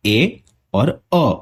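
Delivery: ए और अ as two separated vowels; separate sounds. Shown as a demonstration. Teacher splitting a combined sound, ए और अ kept separate. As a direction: say ए और अ apart, "ay", then "uh". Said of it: "दो sound जो combine हो रहे".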